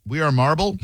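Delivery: host double-checks the caller's odd title, puzzled; puzzled question. Real, not acted. Host repeats the caller's mistaken title, quietly puzzled. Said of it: "We Are Marble sounds like a better movie".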